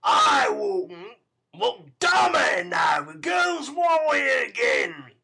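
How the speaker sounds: loud, high, slow furious shout; a brutal man's shouted temper; angry outburst. Acted. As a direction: rage at her, dragging it out. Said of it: "rejoined Mister Sikes".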